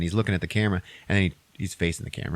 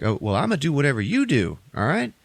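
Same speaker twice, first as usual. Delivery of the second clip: determined; 4 semitones higher than usual. Retold or imitated. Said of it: "he's like".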